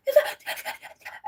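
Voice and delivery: high wordless stuttering in mock panic; panicked speechless stammer. Trying to tell sister about the slug, speechless stammering. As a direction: imitate words failing to come out. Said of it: "I couldn't even get the words out".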